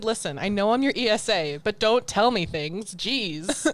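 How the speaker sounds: cat voice. Retold or imitated. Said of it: "She said".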